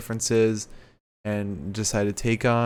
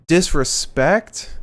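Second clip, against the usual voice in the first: slow, drawn-out mock rasp, higher and louder; a hint of Cedric's raspy high-pitched voice; 7 semitones higher, 6 dB louder, much slower than usual. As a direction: stretch out "Disrespect?" in a mock raspy growl. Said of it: "the raspy voice he does".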